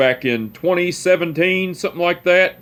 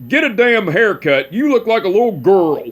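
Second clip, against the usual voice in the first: higher, mock-gruff old man scolding; imitating great-grandpa; 5 semitones higher than usual. Great-grandpa teasing his long-haired great-grandson, mock-gruff higher old man voice. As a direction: needle him about his hair like a cranky old man.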